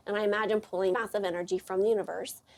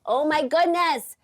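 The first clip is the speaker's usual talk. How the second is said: drawn-out amazed gasp; 6 semitones higher, 5 dB louder, slower than usual. Retold or imitated. Inner reaction to daughter's story.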